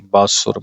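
ਬਾਸੁਰ with a short u after the s; careful pronunciation. Shown as a demonstration. Teacher spelling the word out, ਬਾਸੁਰ said carefully with short u. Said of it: "ਬੱਬੇ ਕੰਨਾ ਸੱਸੇ ਔਂਕੜ ਰਾਰਾ".

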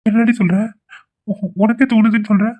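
high, startled disbelief; surprised. Acted. Husband hears wife may be pregnant, stunned and surprised. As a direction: blurt it out in happy shock.

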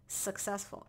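successful drawn out slowly for emphasis; stress on successful. Real, not acted. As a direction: lean slowly on the word successful. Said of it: "Emphasis on the successful".

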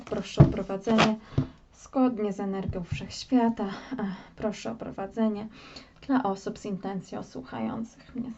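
soft, murmured request for guidance; quiet invocation. Acted. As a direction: ask the universe quietly. Tarot reader's invocation.

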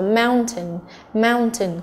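"mountain" stressed on MOUN; first-syllable stress. Shown as a demonstration. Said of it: "cũng là trọng âm thứ nhất".

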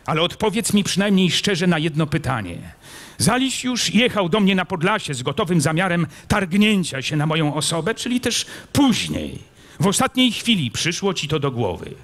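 impatient prince. A narrator's reading. Prince Bogusław demanding an honest answer, impatient.

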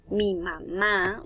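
"Mi mamá" with the final MÁ drawn out; slow "Mi mamá", holding MÁ; stress on last syllable. Shown as a demonstration. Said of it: "es una aguda".

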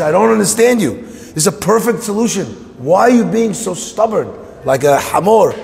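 high-pitched acted exasperation; worked-up, frustrated pleading. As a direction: protest to someone who won't budge. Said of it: "the bear is so frustrated".

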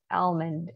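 Almond with a clear L, "al-mund"; American sounded L. Shown as a demonstration. Teacher explains American English, Almond with sounded L. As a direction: pronounce the L in Almond, American style. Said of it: "có âm L ở trong tiếng Anh Mỹ".

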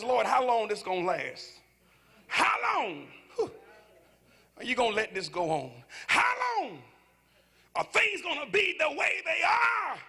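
mock wail of how long; crying out to God. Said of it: "is crying out to God".

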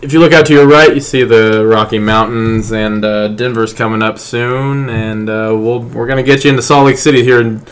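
lightly voiced captain pointing out the sights; chatty captain tour over the intercom; pilot announcement. The speaker playing pilot to his friends, chatty captain voice. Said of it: "do a pilot voice".

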